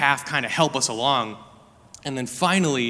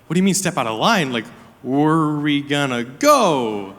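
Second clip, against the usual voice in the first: disbelief; 4 dB louder than usual. Retold or imitated. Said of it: "paralyzed and in disbelief".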